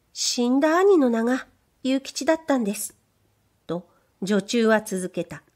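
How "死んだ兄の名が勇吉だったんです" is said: higher, bashful maid's voice; shy young maid. Acted. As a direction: play the timid young servant girl. Maid continues.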